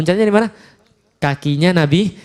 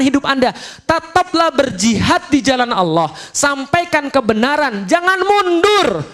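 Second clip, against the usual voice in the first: building slow and higher to a cry; rising exhortation; 7 semitones higher, slower than usual. Acted. Seruan jihad kepada Muhammad. (seruan makin tinggi dan lantang)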